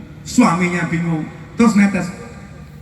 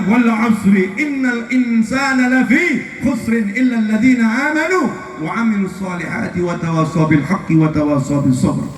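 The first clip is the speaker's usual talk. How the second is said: recited verse descending in pitch; Quran recitation; 4 semitones higher than usual. Real, not acted. Preacher quoting scripture to the congregation, reciting.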